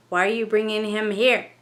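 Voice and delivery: a light lift into a troubled spirit voice; channelled entity voice. Acted. Medium speaking as the spirit to the investigator, lightly voiced. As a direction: ask it as the uneasy ghost. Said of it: "the entrance medium said".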